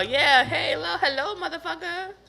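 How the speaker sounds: laughing mock call.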